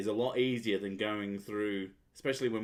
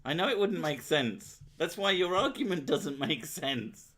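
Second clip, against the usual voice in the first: real exasperation, pitched up high; exasperated arguing; 7 semitones higher, 4 dB louder than usual. Real, not acted. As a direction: argue back emphatically, voice climbing. Heated argument over accents.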